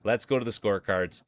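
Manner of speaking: playful ceremony host voice; awards emcee. Acted. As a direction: hype announcer crowning the champion.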